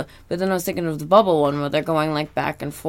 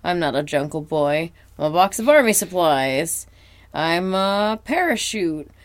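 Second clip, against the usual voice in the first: SpongeBob impression; 4 semitones higher, 3 dB louder than usual. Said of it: "he's doing different impressions".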